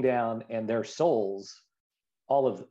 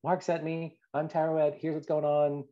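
imitating Teruet; 6 semitones higher than usual. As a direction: lightly put on god voice through a body. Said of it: "She's like".

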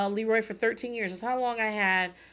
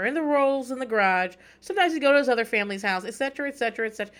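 rising, louder eager listing; eager kid; 3 semitones higher, 5 dB louder than usual. Retold or imitated. Kid correcting everyone at the dog's homegoing, a louder eager rattle. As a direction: imitate the kid piling on details, fast and keen. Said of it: "R J's like".

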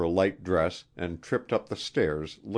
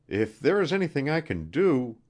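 earnest offer, higher-pitched; sincere; 9 semitones higher than usual. A narrator's reading. Wilson offering help for the wounded man, sincere. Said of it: "said Wilson sincerely".

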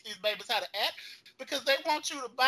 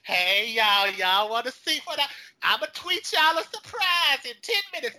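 gushing producer; 3 semitones higher, 5 dB louder than usual. Retold or imitated. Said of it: "You got the executive producer on".

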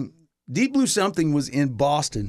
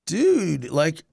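dazed stoner voice; much slower than usual. Retold or imitated. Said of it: "he's like".

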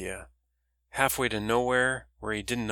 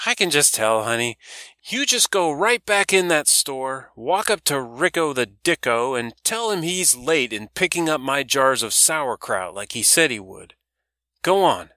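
put-on much higher, louder gossiping old dock lady; a loud old woman teasing about moping Barry; brash old woman; 4 semitones higher, 6 dB louder than usual. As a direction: rib the young man like a loud old auntie. Doris voiced by narrator.

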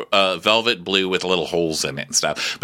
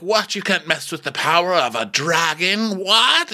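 much higher incredulous squeals; hammed-up astonished questions, pitched up; mock disbelief; 10 semitones higher than usual. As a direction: act shocked at the dragon's power. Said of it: "So they're like".

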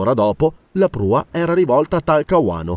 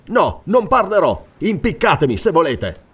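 impetuous defiance; 4 semitones higher than usual. Acted. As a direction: refuse with sudden vehemence. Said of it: "E con impeto". (rifiuto impetuoso)

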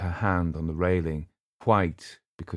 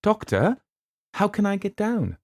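pleading; 3 dB louder than usual. Acted. Eleanor stuck, pleading.

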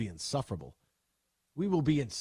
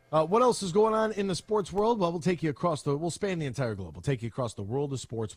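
host segue. Acted. Radio show transition to headlines.

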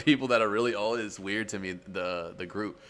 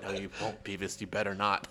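Butthead; 2 semitones lower, 5 dB quieter than usual. Retold or imitated. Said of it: "And Butthead's like".

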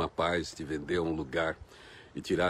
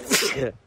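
loud real sneeze; sneezing; 10 semitones higher, 7 dB louder than usual. Real, not acted. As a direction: let out a sudden sneeze. Sneeze right after announcing it.

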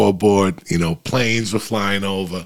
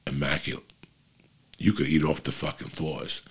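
breathy whisper for emphasis; 5 semitones lower, 10 dB quieter than usual. Real, not acted. Whispering to the guys how clean it was. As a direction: lean in and whisper it. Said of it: "whispered emphasis after "Guys".

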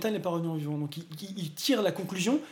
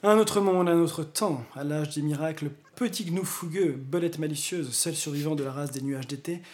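trailer voice narration. Acted. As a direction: read it like a movie trailer. Reads the DVD blurb dramatically.

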